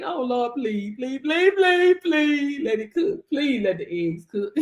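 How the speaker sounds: whiny pleading beggar, hammed up; mock begging. Mocking a believer who begs instead of speaking like a king, in a whiny plea. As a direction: beg the Lord like a pitiful beggar. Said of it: "Don't be around here begging".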